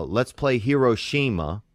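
flat, matter-of-fact pickup line; deadpan delivery of a terrible joke line; calm deadpan. Retold or imitated. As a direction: say the crude line dead calm, as if it's normal. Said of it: "He says it so calmly".

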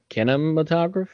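sounds out kinematograph carefully with a questioning rise; unsure reading. Real, not acted. Podcaster reading an odd word to cohost, unsure rising tone.

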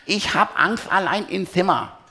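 leicht gespielte Kinderstimme, höher; ängstliche kleine Tuff. A narrator's reading. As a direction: klag ein wenig ängstlich wie ein Kind. Tuff klagt bei Papa. (kleines Kind, etwas ängstlich)

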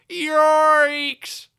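high, loud stretched yelp; alarmed yelp. Acted. Engine seeing danger ahead, alarmed yelp. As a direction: yelp it out long. Engine sees the crash coming.

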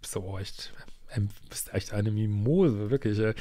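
hissing the ex's put-down; mock whisper. Imitiert den Ex spöttisch flüsternd. (spöttisch geflüstert)

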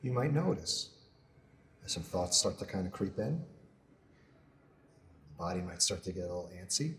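soft, measured meditation voice with long pauses; guided meditation. Acted. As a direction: guide them gently through a body scan, unhurried. Leads a body scan meditation.

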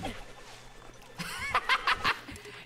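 high, breathy cackle; gloating cackle. Pretend. Player gloating over a defeated foe, playful cackle. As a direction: laugh wickedly in playful triumph.

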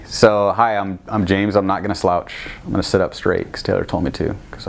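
talking around a mint; mouth full. Real, not acted. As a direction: speak with a mint in your mouth. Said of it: "I have a mint in my mouth".

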